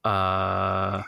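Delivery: halting, trailing stammer over his own name; smitten stammer. Acted. Smitten guard stammers when asked his name. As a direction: fumble the name like a dazzled guard. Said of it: "the smitten guard stammers over, uh, his name".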